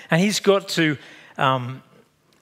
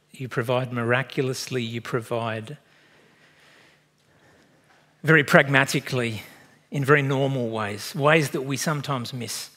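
closing prayer. Acted. Pastor leads closing prayer.

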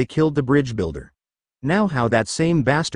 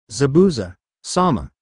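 shouted together. A narrator's reading. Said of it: "Both teens shouted together".

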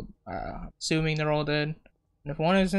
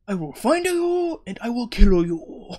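exaggerated mock Asian accent; 6 semitones higher, 5 dB louder than usual. Gamer repeating a revenge vow for laughs, hammed-up Asian accent. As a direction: ham up the threat in an Asian accent. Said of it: "said it like I'm Asian".

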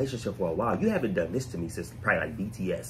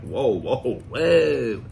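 rising astonished whoa, getting louder; amazed whoa; 6 dB louder, much slower than usual. Retold or imitated. Host reenacting his reaction to a first song, growing amazement. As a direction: let the wonder build to the last whoa. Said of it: "the first one was like".

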